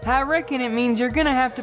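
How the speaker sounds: fast folksy country voice; easygoing Southern pony. Acted.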